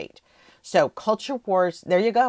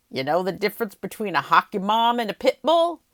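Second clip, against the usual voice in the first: a light put-on Southern accent, a little louder; 4 semitones higher, 5 dB louder than usual. Podcaster quoting Sarah Palin's convention line in a mock Southern accent. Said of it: "I added Southern to that".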